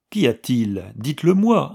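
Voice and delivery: earnest plea to a weeping widow; imploring. Acted. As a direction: beg her gently to speak. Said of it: "implora Anna".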